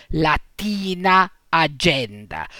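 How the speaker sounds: latina, agenda stressed in the middle; la-TI-na, a-GEN-da; stress on penultimate syllable. Shown as a demonstration. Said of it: "sono accentate sulla penultima sillaba".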